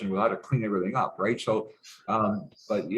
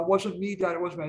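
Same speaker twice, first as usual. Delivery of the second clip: higher-pitched imitation of a son's denial; protesting son; 7 semitones higher than usual. Son swearing to dad he's innocent, retold protest. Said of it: "my son swore up and down".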